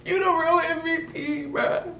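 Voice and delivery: high, loud overjoyed cry; squealing thanks to mom; excited cry. Retold or imitated. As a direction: shriek it with grateful relief. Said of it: "I'm like".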